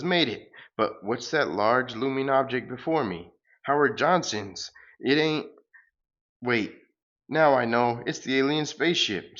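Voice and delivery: sing-song grand farewell, hammed up; pompous hero. The hero flying off to the moon, light hammed-up hero voice.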